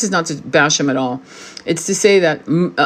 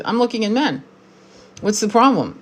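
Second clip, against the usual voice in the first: teasing; 4 semitones higher than usual. Retold or imitated. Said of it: "I was just fucking with him".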